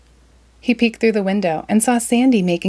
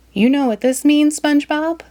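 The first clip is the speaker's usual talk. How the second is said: Sandy voice; 8 semitones higher than usual. Acted. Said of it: "Then she frowned".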